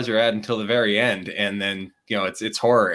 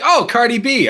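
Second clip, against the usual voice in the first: much higher, louder mock excitement; excited kid recognition; 8 dB louder than usual. Imitating kids who recognise a rapper, high excited squeal. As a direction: squeal it like a thrilled teen fan.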